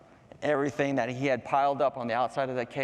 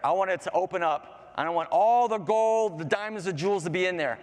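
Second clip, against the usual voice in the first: higher, emphatic demand for treasure; greedy wish; 5 semitones higher, 4 dB louder than usual. Acted. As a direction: build to a loud, eager command. Man commands his greedy wish.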